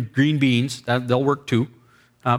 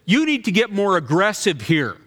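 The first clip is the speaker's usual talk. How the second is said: put-on girl's demand; 5 semitones higher than usual. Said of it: "she says".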